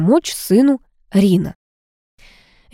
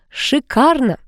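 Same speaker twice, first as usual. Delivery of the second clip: rejoicing; 7 semitones higher, slower than usual. A narrator's reading. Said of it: "заликовала Ада".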